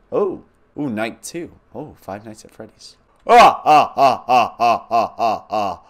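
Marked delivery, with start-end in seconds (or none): 3.3-5.8 loud repeated ah cries, fading; scared yelps. Real, not acted. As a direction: panic in short bursts. Scared by night two screen.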